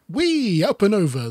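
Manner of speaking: high, gleeful squeal of delight; excited whee. Acted. Jonathan looping the Big Dipper, gleeful high whee. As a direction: cry out like a kid on a ride.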